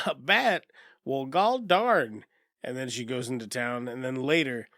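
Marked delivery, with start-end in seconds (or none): 0.1-2.3 high, loud mock astonishment; drawn-out, hammed-up surprise from a movie character. Retelling the bat lady hearing about bats, mock surprise.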